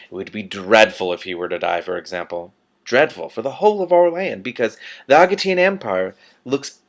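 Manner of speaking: silky, menacing ruler with veiled threats; lightly voiced patrician. The Patrician threatening Rincewind, silky menace. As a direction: purr the threat politely.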